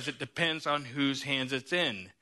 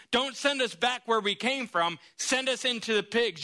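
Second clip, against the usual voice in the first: slightly higher pleading demon voice; a hint of pleading demons; 6 semitones higher than usual. Demons pleading with Jesus, lightly voiced plea. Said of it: "The demons cry out".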